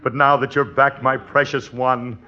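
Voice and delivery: mock matinee-idol romance; hammed-up romantic lover. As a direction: overplay the reunited sweetheart, drawing it out. Husband hams up romantic greeting.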